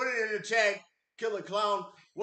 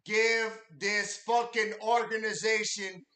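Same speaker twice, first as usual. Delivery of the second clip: emphatic plea; 4 dB louder than usual. Real, not acted. Urging viewers.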